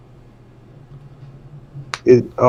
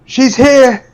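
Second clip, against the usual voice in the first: high, raised call of alarm; yell; 12 semitones higher, 5 dB louder than usual. Acted. Player's character alerts party on finding the barmaid, yelling. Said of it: "I yell".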